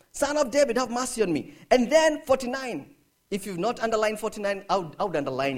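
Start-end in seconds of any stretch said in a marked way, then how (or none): 0.1-1.5 understated raised-voice plea; crying out sternly. Acted. Blind beggar calls again for mercy, mildly acted crying out. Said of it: "cried out even more sternly".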